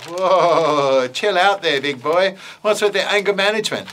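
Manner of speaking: breezy, teasing little bat; bat puppet voice. Acted. Bat puppet talks to dinosaur.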